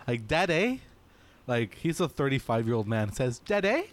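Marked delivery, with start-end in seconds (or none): 0.3-0.8 high rising questioning Daddy; mock Jack Whitehall. Mocking a comedian calling his dad, high rising whine. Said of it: "Jack Whitehall says". 3.4-3.8 high rising questioning Daddy; mock Jack Whitehall. Mocking a thirty-five year old man, high rising whine. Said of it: "Jack Whitehall says".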